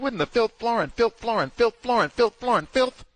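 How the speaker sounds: high, loud, stunned repeating of the word filth; incredulous outburst. Retold or imitated. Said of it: "He said".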